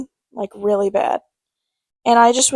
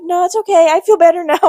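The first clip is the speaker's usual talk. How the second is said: higher, louder hasty refusal; mock anxious protest; 7 semitones higher, 6 dB louder than usual. Grandchild dodging grandma's burning remedy, nervous protest. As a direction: talk your way out of it, playfully panicked.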